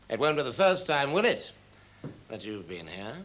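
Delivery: supple line with "will it" lifted; flexible demonstration. Shown as a demonstration. Director showing actor the line, supple and questioning. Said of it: "I'll show you what I mean".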